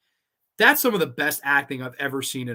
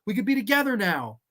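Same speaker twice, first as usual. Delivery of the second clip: imitating the killer; 7 semitones higher than usual. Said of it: "She's like".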